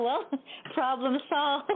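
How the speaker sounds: deadpan problem solved to dad; dry sarcasm. Retold or imitated. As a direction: sell the fake relief slowly. Sarcastic retold reply.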